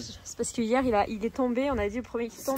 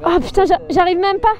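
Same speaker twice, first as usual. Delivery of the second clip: straining through a forearm cramp; pained, struggling with a cramp; arm cramp; 6 semitones higher, 10 dB louder than usual. Real, not acted. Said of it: "là j'ai une crampe".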